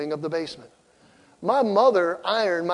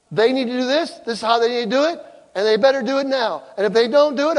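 bossy father; 4 semitones higher, faster than usual. Retold or imitated. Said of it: "I'm gonna raise my voice and I'm gonna yell at them".

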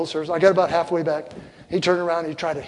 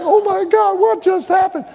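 shocked cry; 12 semitones higher, 3 dB louder than usual. Retold or imitated. Chaos in church, retold reaction.

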